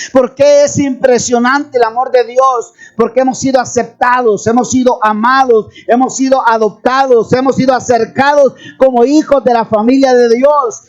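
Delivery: rousing, insistent sermon delivery; fervent preaching. Real, not acted. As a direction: drive each phrase home to rally the congregation. (predicación ferviente)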